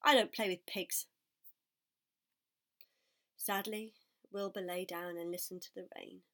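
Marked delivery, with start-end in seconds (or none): 0.0-1.1 dismissive lamb voice. Acted. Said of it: "said the lamb".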